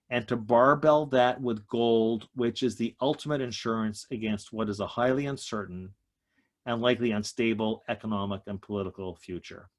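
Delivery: a bit winded, breathing between phrases. Real, not acted. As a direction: talk as if short of breath. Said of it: "I'm a little out of breath".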